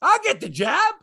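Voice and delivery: high mocking voice; mocking ballplayer. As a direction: mimic him, high and dismissive. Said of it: "He says basically".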